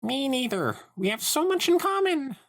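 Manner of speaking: high, forced cheerful exclaim; nervous exclaim. Acted. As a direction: squeak out fake cheer. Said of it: "Sunset exclaimed".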